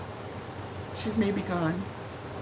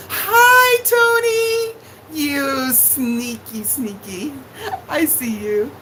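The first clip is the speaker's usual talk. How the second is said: high, sung hello that slows into a teasing "sneaky"; much higher singsong hello, then a slow playful tease; playful singsong greeting; 3 semitones higher, 3 dB louder, slower than usual. Real, not acted. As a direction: call out to a sneaky viewer, teasing. Spots viewer sneaking into chat.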